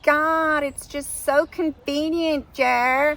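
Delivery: high, drawn-out mock American voice; bad American accent. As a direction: gush slowly in a hammed-up American accent. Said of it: "A very bad American accent".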